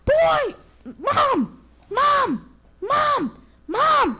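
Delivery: very high, loud calling out; frantic yell. Acted. Little wolf running into the cave, frantic high yelling. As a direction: call for mom in a panic. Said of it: "he yelled".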